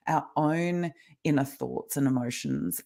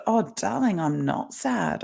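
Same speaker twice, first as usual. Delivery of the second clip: reassuring mum; 4 semitones higher, slower than usual. Retold or imitated. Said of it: "And I said".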